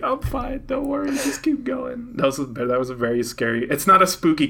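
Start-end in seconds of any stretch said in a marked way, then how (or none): 0.0-2.1 strained brave voice. Retold or imitated. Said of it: "And I'm like".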